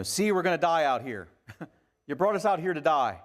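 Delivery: loud, frantic retold complaint; panicked crying out. Israelites crying out to Moses, loud and panicked. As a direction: cry out like trapped people sure they will die. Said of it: "they're crying out".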